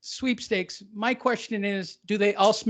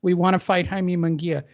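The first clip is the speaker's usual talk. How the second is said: reading slower; 3 semitones lower than usual. Shown as a demonstration. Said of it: "as I read it even slower".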